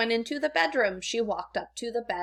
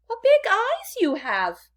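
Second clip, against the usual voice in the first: put-on much higher, louder girlish wonder; little girl amazed; 12 semitones higher, 5 dB louder than usual. A narrator's reading. Girl marvels at Grandma's eyes, higher and louder. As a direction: gasp it out wide-eyed as a little girl. Red Riding Hood voiced in story.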